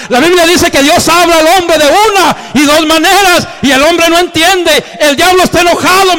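high, loud, near-shouted joy; excited declaration. Retold or imitated. Wife telling her crying husband God is moving, loud and high. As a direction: proclaim it like a triumphant promise.

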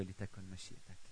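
almost breathe "لتكن مشيئتك"; quiet prayer of surrender. Shown as a demonstration. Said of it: "بصرخ باستسلام".

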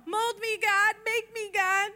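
high, breathy-sounding sing-song prayer; hammed-up sanctimonious prayer; mock spiritual prayer. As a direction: overdo the holy plea. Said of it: "So spiritual".

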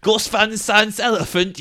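loud, high mocking rant; ranting yell. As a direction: yell a spiteful curse. Ranting at the Irish woman.

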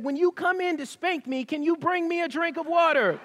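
lightly voiced daughter asking innocently; innocent child asking.

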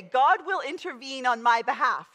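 God will intervene said out loud and firm, leading the congregation; the preacher giving the church the line to say; loud declaration. Shown as a demonstration. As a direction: proclaim God will intervene for them to repeat. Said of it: "I want you to say".

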